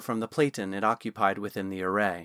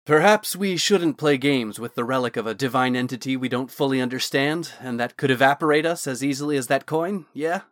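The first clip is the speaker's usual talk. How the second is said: pointed; 4 dB louder than usual. Acted. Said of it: "Thorn commented pointedly".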